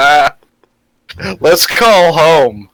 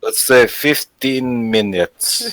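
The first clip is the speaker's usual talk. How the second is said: put-on Russian accent; 2 semitones higher, 4 dB quieter, slower than usual. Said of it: "speak in English in a Russian accent".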